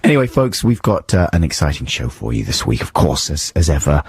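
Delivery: croaky voice from a cold; hoarse voice. Real, not acted. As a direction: speak with a hoarse, sore throat. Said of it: "it's gone to my cords".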